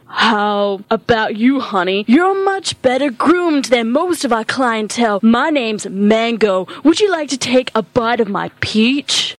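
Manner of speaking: lightly sultry come-on. Acted. Sultry worker Mango.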